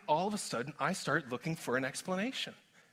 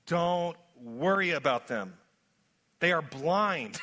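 slow, deliberate reading aloud; read slowly. Shown as a demonstration. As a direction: let each phrase land, unhurried. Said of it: "I'm gonna read it slowly so you get it".

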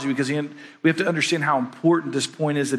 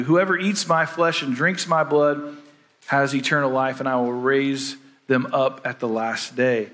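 scripture reading. Acted. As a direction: read each line with weight.

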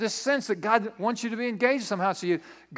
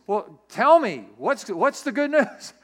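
loud, stretched, pitched-up prodding; impatient urging; 3 semitones higher, 6 dB louder, slower than usual. Acted. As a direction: act out an insistent husband demanding news. Joseph presses Mary for her news.

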